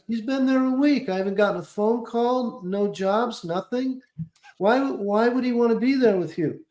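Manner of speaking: a hint of a demanding powerful manager; Brad Gray impression. Client posing as manager to scold agent, lightly done. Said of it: "He goes".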